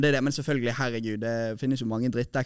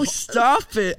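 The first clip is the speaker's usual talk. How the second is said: put-on high, slow valley-girl voice; gushing English-speaking girl; girl mixing English; 9 semitones higher, 5 dB louder, much slower than usual. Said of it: "jenter som snakker halvt norsk, halvt engelsk".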